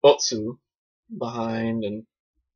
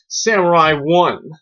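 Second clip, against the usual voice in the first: mock-grand announcer; 4 semitones higher, 7 dB louder, slower than usual. Hammed-up title announcement.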